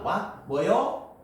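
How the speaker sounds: questioning reply. Acted. Daughter answers mother's call, acted questioning. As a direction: ask as if you missed it. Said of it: "라고 내가 물어봤습니다".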